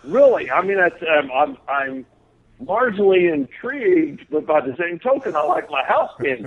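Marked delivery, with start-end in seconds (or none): 0.0-0.5 mock disbelief. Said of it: "It's like".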